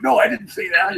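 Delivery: a light imitation of flustered Barney; Barney protesting. Barney denying to Luger in the skit, lightly voiced. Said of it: "he's going".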